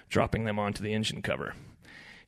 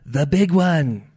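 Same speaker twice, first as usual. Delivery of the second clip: loud, raised, portentous shrimp voice; ominous; 6 semitones higher, 11 dB louder, much slower than usual. A narrator's reading. Shrimp explains the legendary fish to Ed, ominously. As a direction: announce it with looming dread. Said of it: "another explaining ominously".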